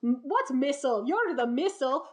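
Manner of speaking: hint of an indignant official deflecting blame; Soviet government denial. Soviet Union denies the missile to the public, mock indignant denial. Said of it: "the Soviet Union was like".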